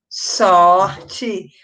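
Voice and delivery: "Sorte" stretched, with weight on the first syllable; drawn-out answer. Shown as a demonstration. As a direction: draw out "Sorte" in two slow parts. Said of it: "Qual é que eu vou começar?".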